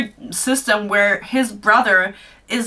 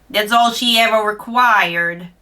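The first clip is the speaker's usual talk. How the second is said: oily voice. Acted. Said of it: "His voice swarmed in my ears ... slick with oil".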